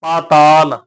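ਪਾਤਾਲ with a long aa in the first syllable; long first vowel. Shown as a demonstration. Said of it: "ਪੱਪੇ ਨੂੰ ਕੰਨਾ ਲੱਗਾ ਹੋਇਆ".

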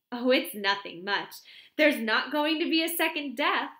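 bright chatter, eager to gossip; chatty young secretary. A narrator's reading. Miss Cram gossiping to the vicar's wife, lightly voiced.

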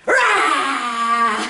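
playful dinosaur roar. Pretend. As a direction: growl it out like a dinosaur. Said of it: "they also go".

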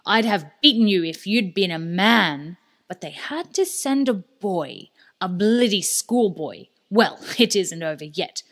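put-on Sale snarls his defeat at the boy; furious villain. Villain Sale taunting Alex, furious and loud.

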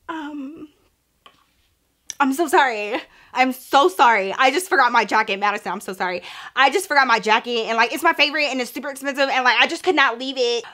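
flustered apology. Retold or imitated. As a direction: spill out awkward apologies, acting it out. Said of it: "giving all these excuses".

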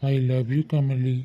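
a lover's slow confession; tender. Acted. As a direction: let each word linger tenderly. Tender reconciliation after quarrel.

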